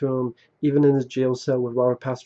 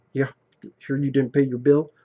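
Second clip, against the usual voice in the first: put-on low-key, low-pitched voice. Retelling a funny movie scene, imitating Jamie Foxx's low-key low voice. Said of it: "he has this really low-key, low voice".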